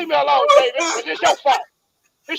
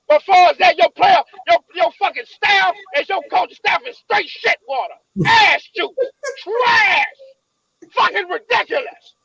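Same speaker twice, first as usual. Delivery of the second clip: angry. Real, not acted. Angry rant at organization.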